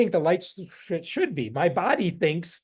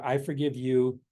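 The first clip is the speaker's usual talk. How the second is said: meditative mantra; 3 semitones lower than usual. Shown as a demonstration. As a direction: say it calmly as the foot lands. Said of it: "you go".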